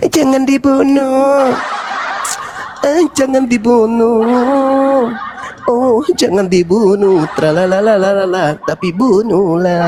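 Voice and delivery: slow, drawn-out mock devil; devil's voice. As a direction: fake pleading from a sly devil, stretched out. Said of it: "Kira-kira suara iblisnya apa?". (suara iblis pura-pura membela, mendayu pelan)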